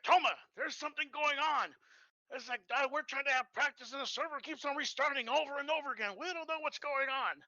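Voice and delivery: a light mock Southern drawl from a worried officer. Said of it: "he has a very thick drawl".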